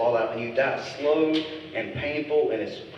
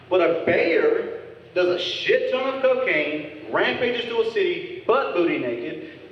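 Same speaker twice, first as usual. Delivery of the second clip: rising outrage; 8 semitones higher than usual. Acted. Indignant build to punchline.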